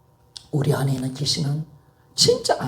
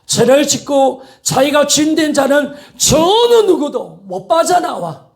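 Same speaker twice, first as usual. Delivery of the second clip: raised, emphatic pulpit warning; fervent preaching; 8 semitones higher, 6 dB louder than usual. Acted. Preacher warning of the power of darkness, fervent preaching. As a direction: hammer out each phrase, rising in force.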